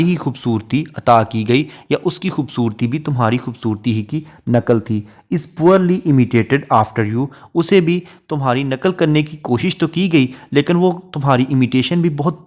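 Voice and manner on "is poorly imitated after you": slow, measured reading of a verse line; poetry recitation. Shown as a demonstration. Teacher reciting a Shakespeare sonnet line to students, slow and measured. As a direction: read each word of the sonnet out slowly.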